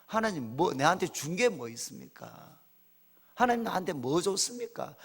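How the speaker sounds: 나직이 하나님께 따지는 시늉; 기뻐하기는커녕 낮은 소리로 툴툴대듯; 시큰둥한 투정 흉내. Retold or imitated. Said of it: "이렇게 한 게 아니고". (심드렁한 불평 흉내)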